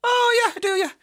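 very high, loud put-on reply; hammed-up delighted recognition; mock enthusiasm. Irish person humouring a stranger's question, mock enthusiasm. Mocked answer to silly question.

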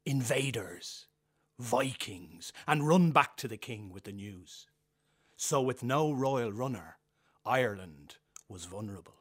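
dramatic storyteller narration; storytelling. Acted. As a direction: tell it like an old Irish tale. Performs storytelling extract.

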